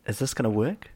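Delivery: echoing like a tiled bathroom; bathroom reverb. Real, not acted. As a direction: voice bouncing off bathroom tiles. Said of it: "I sound like I'm in the bathroom".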